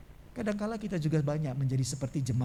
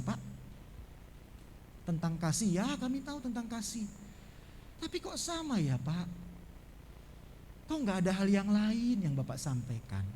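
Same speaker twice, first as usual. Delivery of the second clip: polite soft query; 6 dB quieter than usual. Retold or imitated. Elders politely question the pastor.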